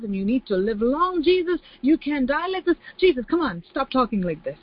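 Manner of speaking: pleading, high and tender; a disciple begging Jesus to live; affectionate Peter. Retold or imitated. A pleading disciple begs Jesus not to die, mock tender. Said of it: "Peter sounded very affectionate and very caring".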